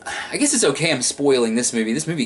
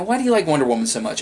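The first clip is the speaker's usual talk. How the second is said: quoted question; 4 semitones higher, faster than usual. Retold or imitated. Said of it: "I've been asked that".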